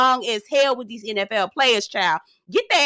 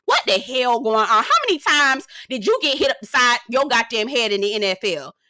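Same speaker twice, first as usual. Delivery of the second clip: mock scolding; 3 semitones higher than usual. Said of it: "I looked at Shannon and was like".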